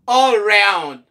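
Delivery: "Around" starting with a loud "uh"; reduced A. Shown as a demonstration. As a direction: open "Around" on uh, never ay. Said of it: "son ka chanje an A". ("Around" ak yon son "ah" devan)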